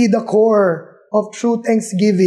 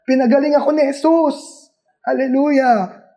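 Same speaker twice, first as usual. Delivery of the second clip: high, lightly exclaimed praise; mock loud praise; 5 semitones higher than usual. Healed leper praising Jesus to all around, mock proclamation. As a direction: imitate a healed man proclaiming it, pitch raised. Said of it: "This was a really loud megaphone praise to God".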